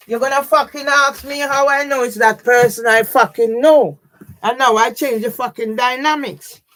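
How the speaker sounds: loud, raging yell at them; real fury, voice straining loud; shouting in real anger; furious shout. Real, not acted. Furious rant at authorities.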